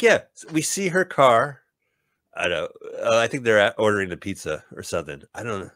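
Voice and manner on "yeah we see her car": dopey mimic. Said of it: "They're like".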